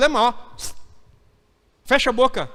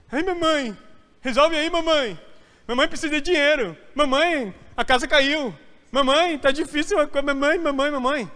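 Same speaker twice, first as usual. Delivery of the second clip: put-on higher, pleading mama's-boy voice; mock whiny baby; 5 semitones higher than usual. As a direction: whine like a grown man calling his mother. Adulto pedindo tudo à mãe. (marmanjo chamando a mãe, voz manhosa)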